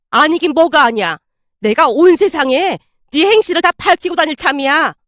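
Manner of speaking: heated, insistent threat; worked-up retort. Acted. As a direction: retort crossly and press the threat. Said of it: "어찌나 흥분한 채 말을 하던지".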